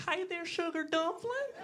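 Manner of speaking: very high, slow, sugary Southern voice; over-the-top Southern sweetheart. Acted. Restaurant hostess greeting a visitor, gushing Southern accent. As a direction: lay on Southern hospitality thickly. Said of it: "over-the-top Southern hospitality, just sweethearts".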